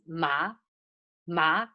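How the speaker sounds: "ma" with the pitch rising; high rising tone. Shown as a demonstration. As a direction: lift "ma" upward as second tone. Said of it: "high rising sound".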